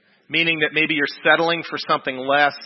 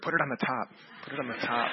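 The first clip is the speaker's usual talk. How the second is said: soft hushed pretend whisper, much quieter; mock whisper; 2 semitones lower, 10 dB quieter, faster than usual. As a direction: playfully hush it like a secret tip. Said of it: "Irene whispered".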